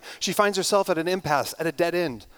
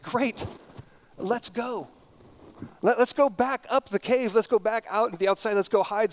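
put-on higher, urgent boy's voice; eager boy; 4 semitones higher than usual. Curdie urges Irene to flee the goblin cave, higher and eager. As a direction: pitch it up and press to get out.

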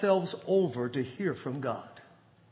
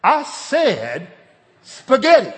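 much louder and higher, spitting out spaghetti; defiant loud repeat; 8 semitones higher, 11 dB louder, slower than usual. Retold or imitated. Husband repeating his dinner choice to his wife, loud and defiant. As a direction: lean back and throw the word at her. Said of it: "I leaned back".

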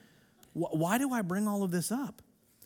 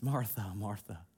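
softer and lower, tender; gentle Jesus; 11 semitones lower, 9 dB quieter, slower than usual. Acted. Jesus answering Martha, tender and soft. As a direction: call her name gently. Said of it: "And then Jesus".

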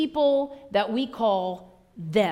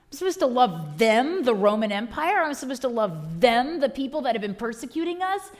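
rising, louder indignant protest; indignant Judas; 3 semitones higher, 4 dB louder than usual. Retold or imitated. Judas protesting to Jesus about loving enemies, mock-indignant outrage. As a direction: protest like a resentful disciple. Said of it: "why Judas was feeling discontent".

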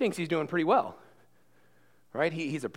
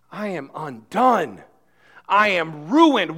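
slowly, as a broken man; slow lament; 8 dB louder, much slower than usual. Acted. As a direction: let each phrase sink, slow. Voicing Isaiah's lament slowly.

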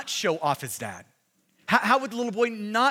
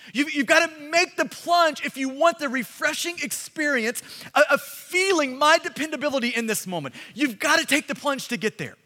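calling dad; 3 semitones higher than usual. Retold or imitated. Dad calling his son from pool.

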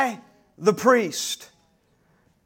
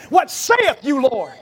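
bold declaration; slower than usual. Shown as a demonstration. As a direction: preach the response out boldly. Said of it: "I want you to say".

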